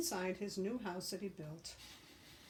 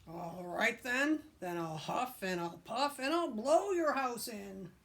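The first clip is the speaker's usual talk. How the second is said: wolf threat; 3 semitones higher, 4 dB louder than usual. Acted.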